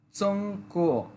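চংকো with first tone then second tone; চংকো: level high first syllable, rising second; Chinese tones. Shown as a demonstration. Teacher models চংকো tones for students. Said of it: "প্রথমটা first tone, পরেরটা second টোনে বলতে হবে".

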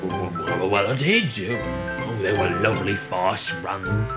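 mild wistful character voice; fond reminiscing. A narrator's reading. Richard recalls pulling boat trains, fondly. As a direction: drift back into happy memories.

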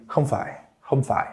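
"không phải" falling with no rise at the end; calm, relaxed. Shown as a demonstration. Teacher showing the calm version, relaxed "không phải" without any rise. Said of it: "you make it a lower tone and you don't do any rising".

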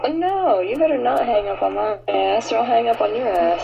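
loud playful threat; mock threat. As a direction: warn them loudly, half joking. Mock threat over hanging up.

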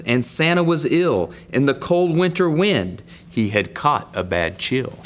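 lilting picture-book read, rising and falling; story narration. Acted. Man reads Pete the Cat to young viewers, storytelling lilt. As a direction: read the rhyme out with a swing.

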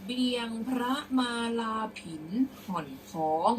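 measured model reading of verse; prose-style recitation. Shown as a demonstration. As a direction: read out old verse phrase by phrase. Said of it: "เดี๋ยวครูจะอ่านเป็นร้อยแก้ว".

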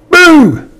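high, loud, drawn-out "boo"; playful boo. Acted. Squirrel popping out to surprise Percy, loud high boo. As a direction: jump out with a big playful boo.

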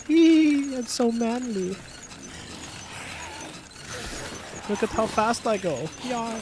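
high, hammed-up German accent; mock German accent. Player bragging about his tricycle ride, mock German accent. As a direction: squeal it out in a silly German accent. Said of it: "I don't know why I did that accent".

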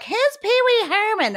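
put-on high, baffled kid voice; puzzled kids. Mother imitating her kids asking about Pee Wee Herman, high and baffled. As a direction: pitch way up like a clueless child. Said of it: "My kids are like".

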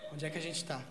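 low, very soft dazed question; stoned daze. Retold or imitated. Stoned partner asks comedian where they are, soft dazed voice. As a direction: imitate someone spaced out, hushed and low. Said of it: "com a maior da brisa".

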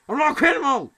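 indignant, high-pitched protest; exclaimed denial. Acted. Repeats denial, now exclaimed.

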